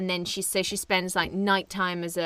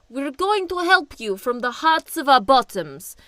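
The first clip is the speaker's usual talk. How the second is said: quoting Ivan; 5 semitones higher, 7 dB louder than usual. Retold or imitated. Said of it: "And Ivan expresses this by saying".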